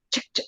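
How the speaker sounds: «ch, ch» sin vocal, dos golpes de aire; sonido ch. Shown as a demonstration. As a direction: pronuncia «ch» como consonante sola, repetida. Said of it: "cuando hacen ch". («ch» aislada, sin voz)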